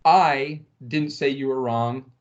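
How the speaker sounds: I stressed, slow and deliberate; the stress on I sets up who said it. Shown as a demonstration. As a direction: lean on the word I, slowly. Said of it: "just say out loud to your muted computer".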